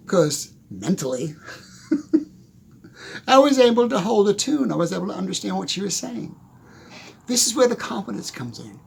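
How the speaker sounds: ordinary delivery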